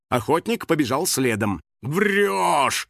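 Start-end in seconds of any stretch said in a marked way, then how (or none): 1.8-2.9 high, drawn-out pursuing yell. A narrator's reading. Hunter chases house spirit, yelling. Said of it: "вопил он".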